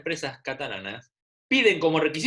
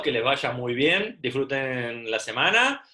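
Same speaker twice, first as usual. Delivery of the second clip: teacher lovingly saying goodbye to her pupils; tender goodbye; 2 semitones lower than usual. Real, not acted. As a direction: wish them well like a fond teacher. Teacher says goodbye to kids.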